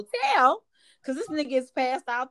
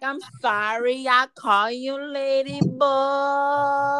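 very slow, reluctant "sorry"; grudging apology; much slower than usual. Retold or imitated. Comedian forced to apologize to the lady boys, slow and grudging.

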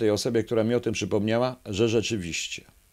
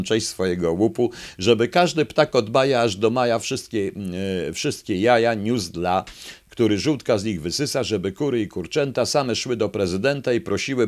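louder proclamation of decrees; decreeing fox; 3 dB louder than usual. Acted. Fox president issuing decrees to the animals, mock-official proclamation. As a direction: announce the greedy laws like an official.

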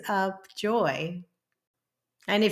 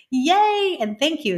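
a high, loud cheer of yay; excited yay; 8 semitones higher, 6 dB louder than usual. Real, not acted. Host cheering for listeners over the Spotify news, excited yay.

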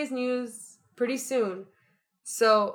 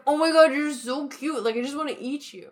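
high, loud gushing "Oh my God, you're so cute"; gushing over baby; 6 semitones higher, 4 dB louder than usual. Retold or imitated. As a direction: coo over an adorable baby with delight. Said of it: "You're like".

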